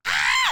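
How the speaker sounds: short mock scream of excitement; retold scream. Friends reenacting their scream mid-store, mock excited shriek. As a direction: imitate a startled squeal, briefly. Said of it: "Screaming mid-store".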